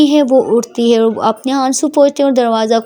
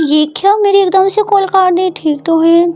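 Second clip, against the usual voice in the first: puzzled friend; 5 semitones higher than usual. Acted. Prita after call cut.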